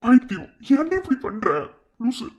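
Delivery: exasperated, urging her along; exasperated scolding. Acted. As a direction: scold a loved one in alarm. Worried scolding of pregnant friend.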